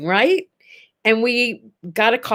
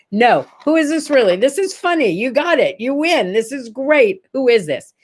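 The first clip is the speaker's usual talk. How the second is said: retold incredulous, insistent protest; amused disbelief; 3 semitones higher than usual. Woman retells challenging a supposed prank caller, in amused disbelief. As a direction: call out a supposed prankster in lively swoops.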